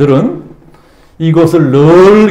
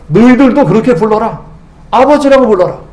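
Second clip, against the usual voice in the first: urging call; 4 semitones higher than usual. Acted. Jesus urging disciples to call.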